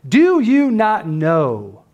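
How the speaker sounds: slow, pointed, half-mocking question; almost sarcastic. Shown as a demonstration. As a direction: drag it out like a teacher who can't believe it. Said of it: "It's almost sarcastic".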